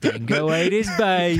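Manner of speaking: put-on Australian accent. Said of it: "of Australian mannerisms".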